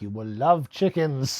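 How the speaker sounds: slow, deliberate villain line; Telly Savalas. Retold or imitated. Quoting the villain's hypnosis line, slow impression. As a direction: draw out each word as a hypnotic command. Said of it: "beautifully delivered lines when Telly Savalas like".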